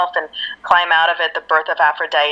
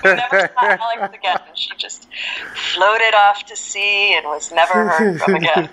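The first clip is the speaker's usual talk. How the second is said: hushed, laughing fake-documentary whisper; mock narrator whisper. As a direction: whisper it like a tragic epilogue.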